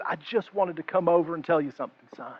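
soft, slowing to a whisper; tender grandmother. Retold or imitated. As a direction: hush it like a caring old woman. Grandmother comforts the jobless listener.

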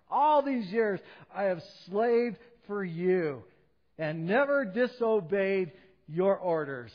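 loud, slow, bitter complaint; resentful older brother. Acted. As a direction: throw the grievance at the father, slowly. Older brother's complaint to father acted.

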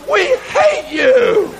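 the exhausted arms answering back; voice of his arms. Retold or imitated. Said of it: "And my arms are going".

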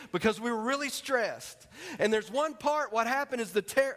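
real rising excitement; excited retelling. Real, not acted. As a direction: get carried away telling the story. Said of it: "I'm getting all excited just thinking about it".

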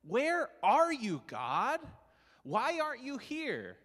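loud, high pleading cry to God. Acted. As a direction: call out to an absent God. Voicing a believer crying to God.

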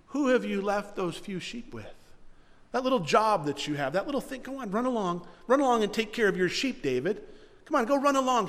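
mildly mocking big-brother brush-off; belittling. Older brother belittling young David about his sheep, dismissive. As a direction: send him off like a kid with a small job. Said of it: "He belittles David".

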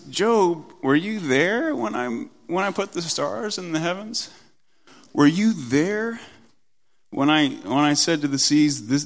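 lightly voiced God putting a man in his place; God challenging Job. God answering Job, challenging authority. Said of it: "God says to Job".

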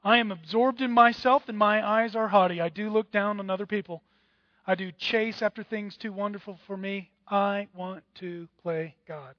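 loud, self-absorbed boast to oneself, easing off at the end; proud heart's voice, loud then fading; proud inner voice. Acted. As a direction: voice the proud heart talking to itself. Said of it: "Here's how it would read".

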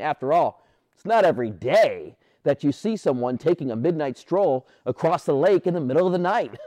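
normal talking voice

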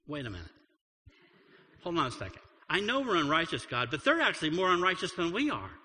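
indignant complaint to God; protesting prophet. Retold or imitated. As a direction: argue back at God in disbelief. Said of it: "He complained again".

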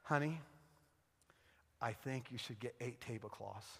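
low, very soft, careful suggestion; saying to himself. Retold or imitated. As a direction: offer it cautiously, with careful pauses. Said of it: "I say to myself".

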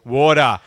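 low, loud American "WAH-der"; mimicking American water. Shown as a demonstration. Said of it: "Americans don't know how to say this word".

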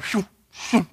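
quick whooshing noises; imitated whoosh. Runners passing the slowing daughter, imitated whooshes. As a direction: mimic someone zipping by.

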